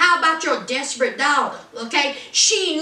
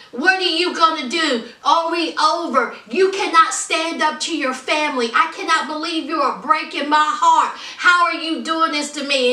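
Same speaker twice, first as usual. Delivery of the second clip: mock heartbroken protest, pitched up a little; retold distraught pleading; 3 semitones higher than usual. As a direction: imitate an upset girlfriend demanding answers. Acts out upset Anna pleading.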